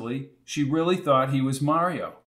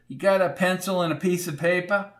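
put-on old landlady; 6 semitones higher than usual. A narrator's reading. Landlady voiced.

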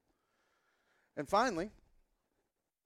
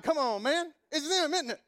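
much higher and louder exasperated plea; pleading whine; 9 semitones higher, 6 dB louder than usual. Retold or imitated. Tenant pleading with the landlord, high exasperated whine. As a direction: beg him to admit it.

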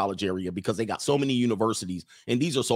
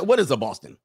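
imitated Boston local griping; mock Boston accent. Host mimicking pissed-off Boston locals, Boston accent. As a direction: drop the r's like an irked Bostonian.

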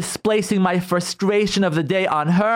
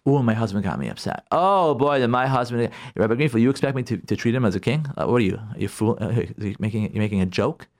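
indignant wife; 8 semitones lower than usual. Retold or imitated. Mocking a wife's indignant reply.

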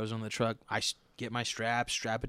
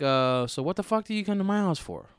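incredulous rant; 3 semitones higher than usual. Retold or imitated. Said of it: "I'm like".

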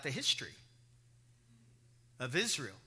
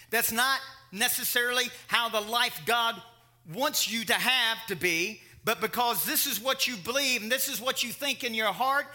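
raised, insistent sermon delivery; emphatic preaching; 3 semitones higher, 5 dB louder than usual. Real, not acted. Preacher applying Proverbs to his listeners, forceful preaching. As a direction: drive the point home to the congregation.

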